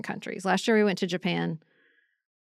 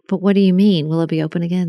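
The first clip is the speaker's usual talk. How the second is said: loud, mock-baffled questioning; retold baffled demand; 6 dB louder, faster than usual. Tourists questioning staff at a closed church, retold baffled demand. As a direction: press them loudly, as a retold protest.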